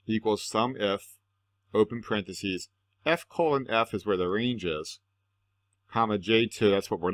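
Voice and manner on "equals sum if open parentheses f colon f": dictating. Shown as a demonstration. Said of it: "take a look at that formula again".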